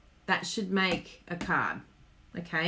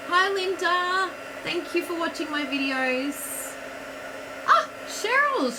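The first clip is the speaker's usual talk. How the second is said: higher, delighted live welcome; excited greeting; 8 semitones higher than usual. Real, not acted. Host spotting viewers joining her livestream, excited greeting. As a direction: greet each arrival with real excitement.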